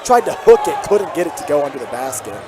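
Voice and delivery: steady broadcast call, lifting on each drive; live play-by-play. Real, not acted. Commentator calling the game for listeners at home, play-by-play.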